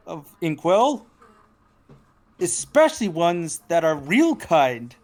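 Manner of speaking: pleased, smiling character voice. Acted. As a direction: greet a friend's friend with a smile. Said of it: "he says with a smi-, as he smiles".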